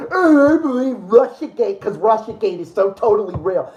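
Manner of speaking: sarcastic fake sincerity, laughing through it; mock believer. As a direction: play a gullible believer with a laugh.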